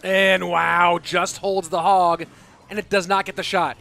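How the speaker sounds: excited call. Real, not acted. Caster calling a big defensive hold.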